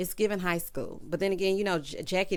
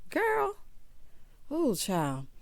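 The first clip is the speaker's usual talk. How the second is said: very high-pitched one-word exclamation; incredulous reaction; 6 semitones higher, 3 dB quieter, much slower than usual. Real, not acted. Host reacts to Jennifer's hidden skeletons, high incredulous exclamation. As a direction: squeak it out in disbelief.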